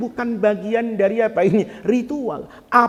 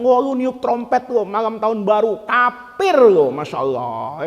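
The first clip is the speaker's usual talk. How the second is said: mock accusing. Mimics a scolding accuser.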